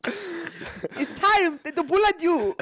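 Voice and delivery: high, very slow mock reaper voice; Grim Reaper voice. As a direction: drag it out like a hammy reaper.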